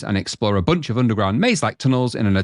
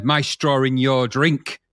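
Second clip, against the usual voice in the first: film quote impression; much slower than usual. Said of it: "I broke out into the".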